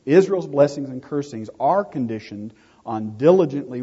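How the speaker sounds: corrected and pressed harder. Real, not acted. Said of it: "let me try that again".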